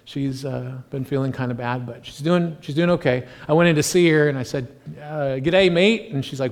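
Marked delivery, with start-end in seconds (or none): 5.4-6.1 clumsy attempt at an Australian greeting; bad Australian accent. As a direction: have a poor go at an Australian accent. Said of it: "I can't do an Australian accent at all".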